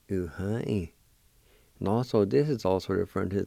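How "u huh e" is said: "U-huh-e." said again as one word, falling at the end; repeated demo. Shown as a demonstration. Teacher repeating "U-huh-e." for the class to copy. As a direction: repeat "U-huh-e." smoothly for learners. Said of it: "It's pronounced like this".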